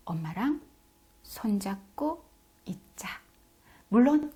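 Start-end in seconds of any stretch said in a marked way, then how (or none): 0.1-3.1 soft, slow reassurance; gentle and slow. Shown as a demonstration. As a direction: coax calmly while holding hands. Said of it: "천천히 얘기하시는 거예요".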